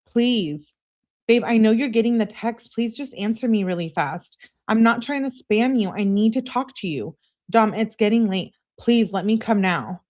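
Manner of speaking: mock-urgent girlfriend plea; pleading. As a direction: keep begging as if time is running out. Acts out a barrage of begging texts.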